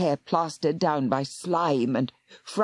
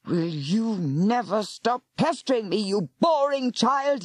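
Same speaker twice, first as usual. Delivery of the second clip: spat; 5 semitones higher than usual. Acted. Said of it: "he spat".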